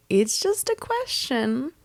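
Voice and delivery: high, drawn-out protest; acted exasperation. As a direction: stretch it out slowly as if stating the obvious. Exasperated reply to testy coworker.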